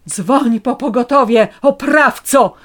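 high, loud melodramatic outcry; theatrical accusing shout. A narrator's reading. Woman faking collapse accuses the policeman, high loud outcry. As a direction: accuse him like a martyr. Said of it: "krzyknęłam".

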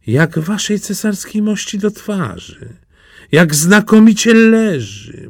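high, gushing flattery; fawning praise. Acted. Courtiers flatter the emperor, high and gushing. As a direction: gush over the invisible clothes. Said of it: "mówili dworzanie".

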